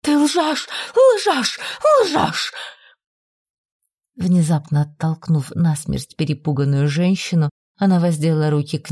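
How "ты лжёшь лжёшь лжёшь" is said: high, frantic accusing cry; frenzied repetition. Acted. Lady shakes the visitor, frantic high cries of liar. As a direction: shake her and scream liar. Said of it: "с безумным неистовством повторяя".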